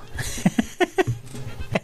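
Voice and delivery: a high, soft, airy laugh; breathy giggle. Real, not acted. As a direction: laugh under your breath. Laughs at the read message. (risita aireada y aguda)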